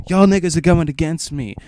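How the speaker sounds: high indignant cry; whiny outburst. Retold or imitated. Trevor accusing the table before storming out, high whine. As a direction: squeal it out, betrayed.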